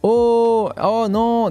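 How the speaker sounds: quick cartoon background cries; cartoon gasps. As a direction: mimic a voice actor's stock gasps. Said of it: "Il y a marqué".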